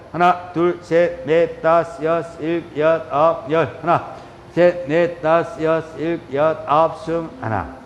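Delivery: steady rhythmic yoga count; exercise count. Real, not acted. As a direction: count out the stretch beat by beat. Counts out a held stretch. (박자 맞춰 구령 붙이기)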